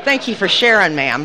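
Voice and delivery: sarcastic thanks through laughter; mock-polite, laughing at the absurdity; laughing sarcasm. Speaker laughs, sarcastically thanking the old lady. Sarcastic reply to obvious remark.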